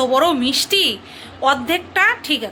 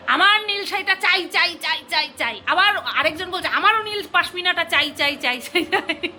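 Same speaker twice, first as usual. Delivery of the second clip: put-on whiny child; 4 semitones higher than usual. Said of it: "ওই যে বাচ্চারা করে না".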